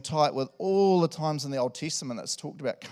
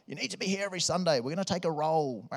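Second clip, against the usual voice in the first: mock strict pastor; 4 semitones higher than usual. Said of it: "I'm not like".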